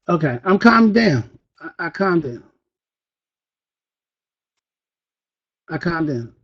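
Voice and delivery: soft, sinking murmur; put-on subdued calm. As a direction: let each line fade smaller.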